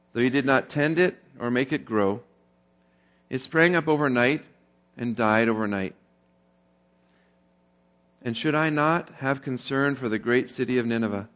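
measured Bible reading to the congregation; scripture reading. Acted. Pastor reading Jonah aloud to the church, a steady scripture read. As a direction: read the verses out, steady and clear. Reads God's words from scripture.

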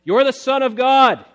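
high, loud shout; shouting demons. Acted. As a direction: cry it out as the demons.

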